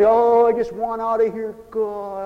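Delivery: fed-up prayer sinking away; mock weary disgust. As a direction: imitate someone sick of the world, fading. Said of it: "we become disgusted with the world".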